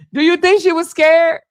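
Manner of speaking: high-pitched, laughing question; laugh, then ask through it; real laughing. Real, not acted. Host amused at how calm the officer was, laughing. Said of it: "I'm laughing".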